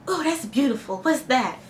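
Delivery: put-on simple-woman voice; mocking impression of a film character; Mimi's voice. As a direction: imitate her naive wonder. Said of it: "that's how she talks".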